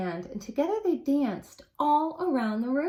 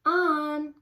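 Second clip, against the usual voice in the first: raised voice calling across the house; 5 semitones higher, 5 dB louder than usual. Acted. Grandfather calls On to dinner, raised voice. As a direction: call him from the kitchen.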